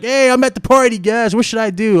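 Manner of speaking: high-pitched imitation of a girl streamer; mock gamer girl. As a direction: pitch it up, mocking a streamer asking her viewers. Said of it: "She's like".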